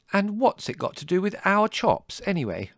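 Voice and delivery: high, loud indignant question; cross challenge. A narrator's reading. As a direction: butt in demanding an answer. Margot challenges Larry crossly.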